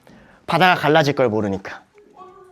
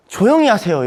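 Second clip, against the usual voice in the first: Moses calming people; 4 semitones higher, 3 dB louder than usual. Retold or imitated. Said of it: "모세가 뭐라고 하냐면".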